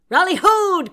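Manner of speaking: loud sailor's cry; gruff shouting first mate. Acted. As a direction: bellow it across the deck. Bosun cries out in story.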